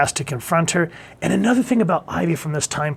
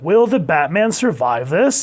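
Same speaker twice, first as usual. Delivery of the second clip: a hint of the dramatic sixties announcer, slower; old TV announcer; 4 semitones higher, 4 dB louder than usual. Reviewer recalling the Batman show announcer, mild dramatic tease. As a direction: tease the cliffhanger like a TV narrator. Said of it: "he kinda had this inflection".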